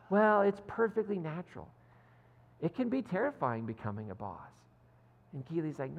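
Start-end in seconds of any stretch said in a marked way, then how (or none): 0.1-4.5 high, emphatic start, settling into explaining; mock mansplaining. Higgins explaining fear to Keeley, mansplaining. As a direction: lightly imitate a know-it-all reassuring. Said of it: "the perfect mansplaining".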